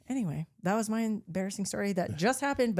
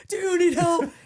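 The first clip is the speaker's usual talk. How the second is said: high, louder worried call; mock worried shout; 10 semitones higher, 6 dB louder than usual. Friend Steven shouts to fallen woman, high worried call. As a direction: play a frantic friend offering help. Everybody screaming at her.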